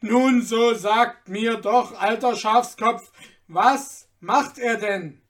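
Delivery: loud, emphatic exasperated demand; angry master berating a fool; impatient shout. A narrator's reading. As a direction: shout it slowly, out of all patience. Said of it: "und schrie".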